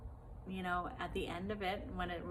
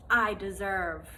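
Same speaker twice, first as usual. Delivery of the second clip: louder, slow assertion of power; powerful; 5 dB louder than usual. Shown as a demonstration. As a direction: declare it slowly, with power. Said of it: "that power of being like".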